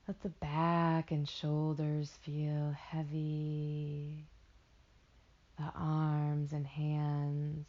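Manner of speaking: slow meditation voice, long pauses between phrases; guided meditation. Acted. Meditation guide helping listeners float in warm water, slow guided delivery. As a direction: lull them into rest with drawn-out words.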